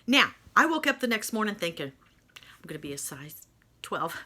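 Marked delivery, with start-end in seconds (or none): 2.4-4.1 soft secret whisper of a wish; hopeful whisper. Retold or imitated. Hopeful thought on waking.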